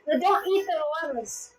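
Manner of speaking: begging Mama in a high, strained voice; high pleading. Real, not acted. Begging mom to stop.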